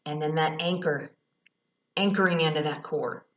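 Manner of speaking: calm meditation guide; guided visualization. Acted. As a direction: talk them gently down into the earth.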